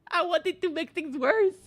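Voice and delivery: loud and high, laughing through the words; gleeful troublemaker; laughing outburst. Real, not acted. Gamer gleefully admitting she made it worse, laughing loud.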